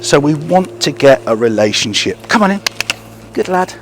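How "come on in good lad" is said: high coaxing call to the dog; dog praise. Real, not acted. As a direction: call him in, bright and lifted.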